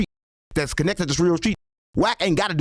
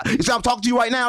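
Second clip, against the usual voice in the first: nice tone; 3 semitones higher than usual. Shown as a demonstration. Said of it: "This is my nice tone".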